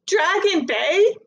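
high, slow disbelief; girl echoing in disbelief; incredulous. Acted. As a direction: echo it back, baffled. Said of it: "I said, incredulous".

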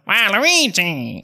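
high, slow wondering cry; Waluigi's awe. Acted. Evolved Waluigi admiring himself after the machine, high slow wonder. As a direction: marvel at your new body. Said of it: "He's going".

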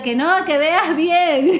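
slow, drawn-out insisting; slow insistence. Retold or imitated. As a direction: spell it out slowly so he looks again. Insisting husband look again.

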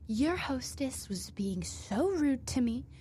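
high, loud, slow whiny complaint; mock an entitled customer complaining to the manager; woman griping to the manager about the hostess, in a mocking high whine; imitating indignant woman. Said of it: "And the woman was like".

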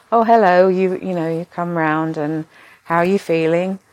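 mock cheerful nurse hello; imitating cheery nurse. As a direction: mimic a bright nurse waking a patient. Nurse voiced greeting patient waking.

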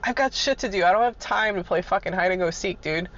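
lightly voiced irritation at being made to hunt; exasperated. Replaying her annoyed reply to the foreman, mildly exasperated. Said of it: "And I'm like".

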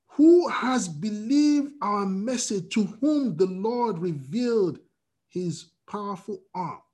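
slow, measured reading of scripture; solemn scripture reading. Acted. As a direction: read the verse slowly and deliberately.

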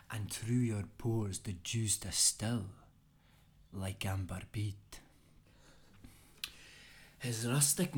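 an amateur Scottish brogue, declaimed with gusto; a modest Scottish accent, performing the poem for a friend. Acted. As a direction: recite Burns in a lightly put-on Scottish accent. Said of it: "excuse the poor Scottish voice, but I think it needs to be said in a Scottish voice".

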